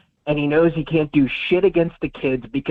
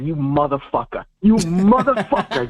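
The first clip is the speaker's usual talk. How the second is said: retold furious yell. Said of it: "I just remember saying".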